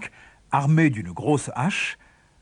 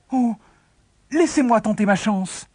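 pleading; 7 semitones higher than usual. Acted. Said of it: "supplia le gamin".

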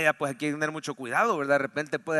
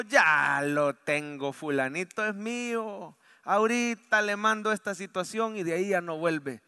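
enemy boasting about the believer, gloating slowly; scheming enemy voice. Acted. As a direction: savor each word like a villain.

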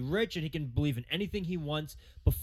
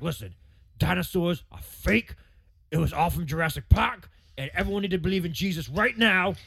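imitating Carl Everett's louder rant; mock rant; 5 dB louder than usual. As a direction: rant like an unhinged ballplayer.

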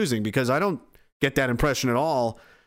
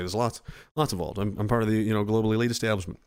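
mock elite insider; 5 semitones lower, faster than usual.

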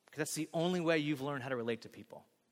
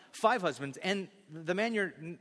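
ordinary talk

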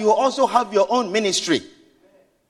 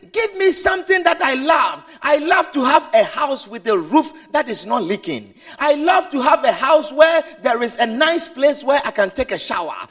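aged father's wishes. Acted. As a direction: plead like an old man. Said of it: "he says".

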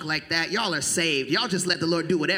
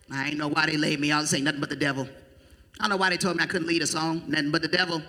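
mock complainer; 3 semitones lower, faster than usual. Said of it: "you'll blame stuff on the devil".

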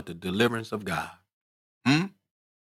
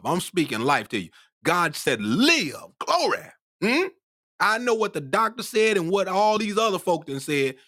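raised-pitch sermon exhortation; impassioned preaching; 7 semitones higher than usual. Real, not acted. Preacher telling the sick to live, impassioned preaching. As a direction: insist on it like a preacher speaking life.

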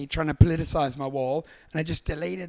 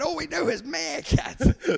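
high, drawn-out lament; hammed-up fed-up complaint; mock exasperation; 9 semitones higher, slower than usual. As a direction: imitate a despairing executive. Acting exasperated brand board member.

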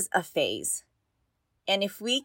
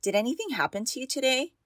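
gentle question; 5 semitones higher, faster than usual. Shown as a demonstration. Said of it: "Ask if anything happened today".

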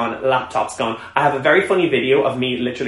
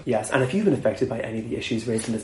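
mock announcer; 7 dB quieter than usual. Mock helpline announcement parody.

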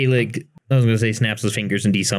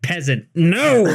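high inner voice; 8 semitones higher than usual. Retold or imitated. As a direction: squeak the mistake, then yelp No. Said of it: "my mind was like".

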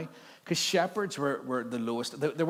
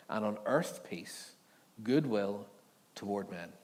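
steady, measured Bible reading; scripture reading; 2 semitones lower than usual. Acted. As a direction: read the passage out to the church. Reads the Christmas story.

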